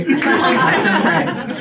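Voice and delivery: whispered, slow repeat of the boast; breathy aside. Acted. Comic murmuring her boast again to the audience. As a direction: breathe it out slowly to the crowd.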